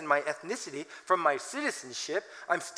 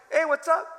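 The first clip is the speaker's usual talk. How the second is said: higher, louder breezy greeting; casual hey; 8 semitones higher, 4 dB louder than usual. Retold or imitated. Old guy greeting young Korean ministry, breezy and loud. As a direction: greet them like a buddy. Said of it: "I'm like".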